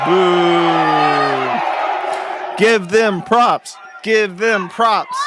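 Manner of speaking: loud, high, slow jeering shout; heckling boo. Real, not acted. Streamer booing the chair who cut off the speaker, loud jeering. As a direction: drag it out and jeer at the chair.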